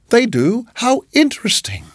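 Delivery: high, lilting polite interest; fussy hostess, pitched well up; gushing landlady. A narrator's reading. Landlady reacts to Billy.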